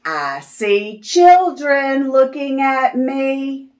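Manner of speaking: put-on lively sing-song read-aloud for little kids; reading to children. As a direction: read it like story time on the rug. Reading picture book to children.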